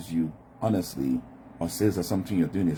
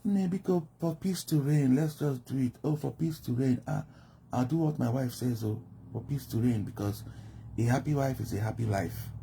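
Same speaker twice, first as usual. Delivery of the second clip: higher, resigned giving in for peace; a mild mock of a henpecked husband; meek yes-man; 6 semitones higher than usual. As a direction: play the husband who just wants peace at home. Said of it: "Whatever you tell them".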